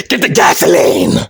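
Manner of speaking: strained mock shout; Vince McMahon. Boss repeating his order, hammed-up shout. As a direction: bellow the order like a raving boss. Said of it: "He just keeps screaming it".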